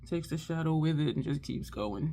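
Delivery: normal talking voice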